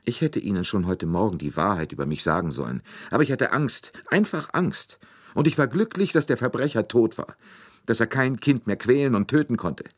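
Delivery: high, distraught outpouring; weeping. A narrator's reading. Nurse mourns murdered child to detective, tearfully distraught. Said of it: "noch immer weinend".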